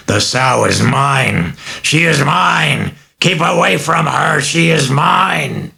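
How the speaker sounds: high, slow possessive snarl; the demon claiming its victim; demonic rage. Acted. Demon claims the girl from the doctors, slow snarl.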